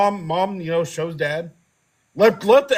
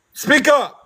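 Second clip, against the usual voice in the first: loud retort. Retold or imitated. Teen snapping back at his angry dad, loud and cheeky. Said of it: "And I said it like that".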